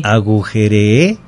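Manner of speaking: "Agujeré" said as agujere-É, long stressed ending; past double E. Shown as a demonstration. Teacher clearing up host's confusion over past, long final E. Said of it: "es en pasado".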